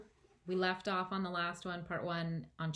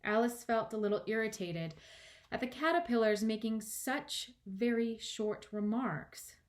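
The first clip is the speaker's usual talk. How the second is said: emphatic storybook reading; expressive audiobook narration; story narration; 5 semitones higher, 4 dB louder than usual. A narrator's reading. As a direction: narrate with measured stresses. Reads the story aloud.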